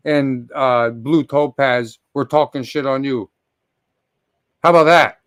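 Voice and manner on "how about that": loud, sharp challenge; angry call-out. Real, not acted. Streamer calling out a former friend, loud angry challenge. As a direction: throw it at him like a dare. Livestream rant calling out G Mangos.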